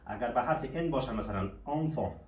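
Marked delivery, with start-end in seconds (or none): 1.6-2.1 "آنفان" with open AW in both syllables; nasal-vowel word "آنفان", both vowels as آ; EN read as آ. Shown as a demonstration. («آنفان» با صدای آ در هر دو هجا)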